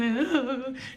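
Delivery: short put-on sob; mock crying. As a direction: act out a little weepy moan. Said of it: "And I'm crying".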